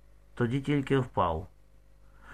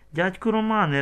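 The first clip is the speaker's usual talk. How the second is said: sobbing; 6 semitones higher than usual. A narrator's reading. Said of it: "ридає".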